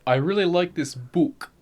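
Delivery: slow, lightly British delivery; British accent. Shown as a demonstration. Friend demonstrating the word in a sentence, British accent. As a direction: put on a British accent, long oo in "book". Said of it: "if you say it like a British accent".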